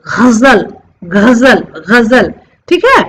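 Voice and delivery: गजल with gargled gh and z; nukta pronunciation. Shown as a demonstration. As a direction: say गजल with ghazal sounds. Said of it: "जैसे गजल". (गजल को ग़ज़ल की तरह)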